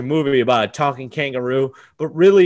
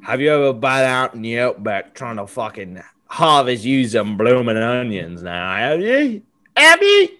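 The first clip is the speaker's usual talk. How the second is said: mock Australian accent; 4 semitones lower than usual. Host taunting about blooming onions in mock Aussie accent. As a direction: challenge them in a hammy Aussie voice. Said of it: "That accent change".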